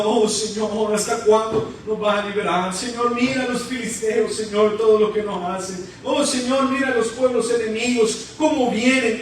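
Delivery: mildly acted wail to God; Gideon's tearful complaint. Gedeón threshing wheat under enemy threat, mock tearful complaint. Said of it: "Gedeón está llorando, golpeando".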